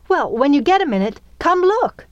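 quick, high, loud and eager; excited urging. A narrator's reading. Girl eager to show the work site, excited. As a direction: hurry her along, rising in excitement.

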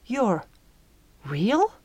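tentative croak, rising into a question. A narrator's reading. Girl with throat tight from emotion, croaking. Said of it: "Her voice croaked".

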